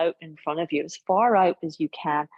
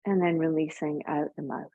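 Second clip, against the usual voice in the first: calm yoga teacher voice with long pauses; guided breathing. Real, not acted. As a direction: guide them gently through each breath, leaving space.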